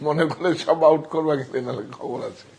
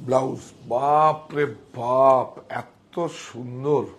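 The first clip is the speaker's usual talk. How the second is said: slow awed admiration; much slower than usual. Real, not acted. Seller admiring a saree live.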